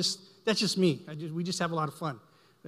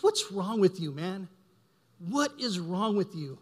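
pastor's rebuke; 2 semitones higher, slower than usual. Retold or imitated. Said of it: "he goes".

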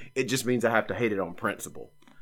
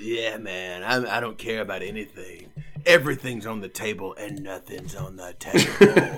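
a touch of self-satisfied, laid-back musician; proud artist; 2 semitones lower than usual. Acted. Host mimicking a proud songwriter explaining his song, lightly mocking. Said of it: "he is very proud that he's like".

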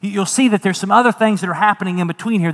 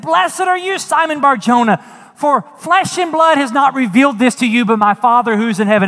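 Jesus blessing Peter; 5 semitones higher, 3 dB louder than usual. Acted.

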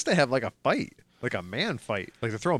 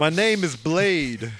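slow, lightly deepened Blade impression; a hint of Blade's cool swagger; playful Blade movie voice; Wesley Snipes as Blade; 3 semitones higher, 4 dB louder, slower than usual. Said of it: "I'm doing Wesley Snipes".

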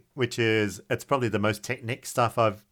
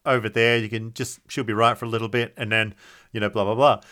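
laconic outback drawl. Retold or imitated. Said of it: "And I'm like".

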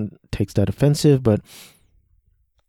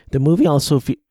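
voice crack; 4 semitones higher, faster than usual. Real, not acted. Reviewer reading out the cast, voice cracking. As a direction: voice cracking upward mid-sentence. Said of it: "voice crack".

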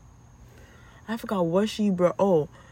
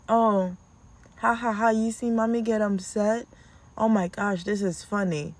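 mocking kids; 3 semitones higher than usual. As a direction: taunt like a giggling kid. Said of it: "Go and say".

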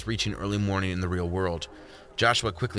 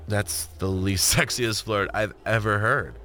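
laughing. Acted. Laughs at clumsy flirt.

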